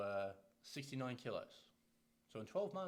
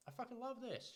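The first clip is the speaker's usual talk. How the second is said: excited client quote; 11 semitones higher than usual. Retold or imitated. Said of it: "She's like".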